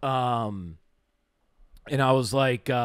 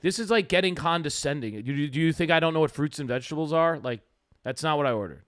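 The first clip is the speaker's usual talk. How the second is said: understated irritation, level voice, fast middle; annoyed, not screaming; faster than usual. Shown as a demonstration. Showing his cohost how he told the server off, understated annoyance. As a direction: show the real tone: annoyed but not yelling. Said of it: "That was how I said it".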